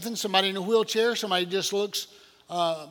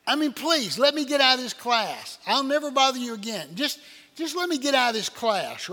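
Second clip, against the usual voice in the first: higher, louder desperate begging; mock desperate plea; 5 semitones higher, 3 dB louder than usual. Student begging the math teacher, high and desperate. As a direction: plead like a cornered student.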